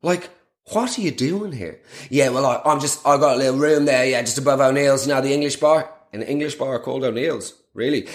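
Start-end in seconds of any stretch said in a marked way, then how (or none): 2.1-5.9 imitating Chezza. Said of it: "Chezza reply".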